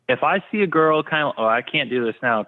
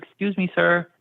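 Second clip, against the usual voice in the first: politely imitated little kid, pitched higher; courteous kid getting an adult's attention; 5 semitones higher than usual. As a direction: ask like a well-mannered child. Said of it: "he's very polite".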